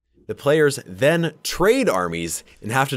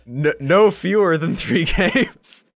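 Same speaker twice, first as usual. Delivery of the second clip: gloating laugh; 8 semitones higher, 4 dB louder, slower than usual. Real, not acted. Gloating over the loss.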